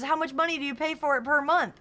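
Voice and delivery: high, loud hyped-up interviewer; mock interviewer voice. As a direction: play an eager video host. Imitating video interviewer.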